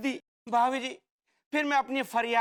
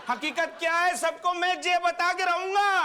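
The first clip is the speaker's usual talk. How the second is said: raised, dramatic vow; defiant declaration; 4 semitones higher than usual. Acted. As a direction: melodramatic insistence, rising in pitch. Insists on revealing the truth.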